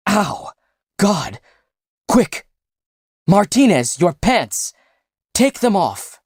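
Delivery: panicked high-pitched orders; injured friend barking panicked orders at his friends; frantic injured man. Acted.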